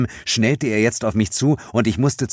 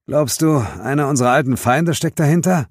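worried partner voice; 8 semitones higher than usual. Acted. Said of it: "fragte Suko".

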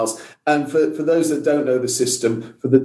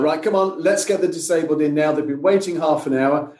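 retold steward's command, pitched up; mildly raised, take-charge voice; authoritative call; 3 semitones higher than usual. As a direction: imitate someone taking charge, without really shouting. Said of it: "quite authoritatively shouted".

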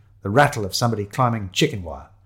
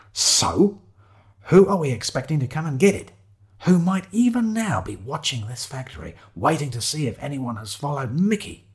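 slightly raised, leading questioning; lightly voiced officious schoolmaster; bossy Shiloh; 5 semitones higher than usual. Shiloh leading companion to the answer, patiently bossy.

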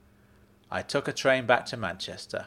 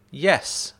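firm; 5 semitones higher, 5 dB louder than usual. Acted. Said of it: "I said rather firmly".

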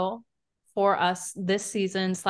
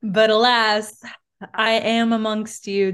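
slow, grand mock alien reveal; hammed-up alien from above; dramatic alien; 4 dB louder, slower than usual. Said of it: "with my humanoid voice".

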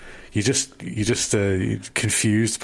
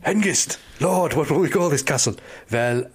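mock German soldier; 2 semitones higher than usual. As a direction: play a dim German soldier. German soldiers naming the castle.

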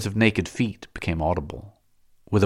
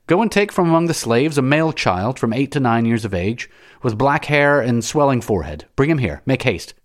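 raised, urgent master's command; commanding order; 6 semitones higher, 4 dB louder than usual. A narrator's reading. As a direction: order the servant about briskly. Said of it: "he said".

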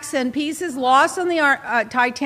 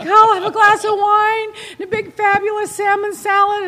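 fancy ordering; 8 semitones higher, 3 dB louder than usual. Retold or imitated. Ordering at the restaurant.

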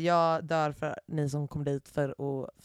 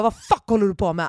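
louder, furious demand; confronting the man at the party, loudly; mock angry shout; 3 semitones higher, 9 dB louder than usual. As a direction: confront him. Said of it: "Jag bara".

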